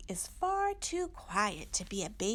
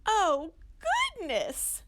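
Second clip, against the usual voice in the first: high, louder slow squeak; 11 semitones higher, 6 dB louder, slower than usual. Acted. Mommy squeaks in alarm at Little Owl's dragon idea. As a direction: gasp it out in mock alarm. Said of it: "squeaked Mommy".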